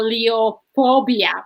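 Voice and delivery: syllable by syllable. Shown as a demonstration. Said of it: "say it syllable by syllable".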